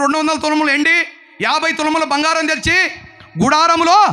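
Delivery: high, insistent sermon listing; forceful preaching. Real, not acted. Preacher listing what Achan took, forceful preaching.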